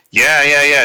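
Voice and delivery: quick, keen triple "yeah, yeah, yeah", fully agreeing; eager agreement. Shown as a demonstration. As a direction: sound fully on board with each "yeah". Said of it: "the person doesn't quite agree".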